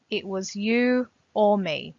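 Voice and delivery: firm, definite statement; matter-of-fact. Acted. Teacher quoting the poem's declarative sentence, matter-of-fact and definite. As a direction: state it as plain certainty, leaning on "you". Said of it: "Matter of fact".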